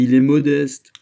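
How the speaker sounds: loud, high, rapturous exclamation; transporté. A narrator's reading. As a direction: cry it out, carried away with admiration. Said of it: "s'écria D'Artagnan transporté". (cri d'admiration enthousiaste)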